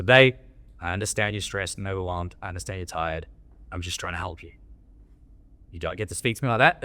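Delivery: assertive, not a dickhead; calm, assertive tone. Shown as a demonstration. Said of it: "The tonality, the energy".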